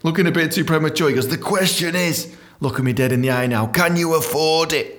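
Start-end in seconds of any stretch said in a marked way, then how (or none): 1.3-2.3 a hint of a slow, weighty older man; lightly voiced slow tycoon; Jack's slow voice. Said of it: "That's how he sounds". 3.7-5.0 a hint of a slow, weighty older man; lightly voiced slow tycoon; Jack's slow voice. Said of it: "That's how he sounds".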